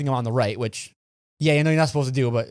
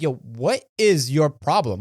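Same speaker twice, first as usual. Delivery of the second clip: slow, spread-out honest confusion; asking a stranger what his problem is, slowly; puzzled plea; 2 semitones lower, slower than usual. Retold or imitated. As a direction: really ask what's wrong. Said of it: "I was legitimately like".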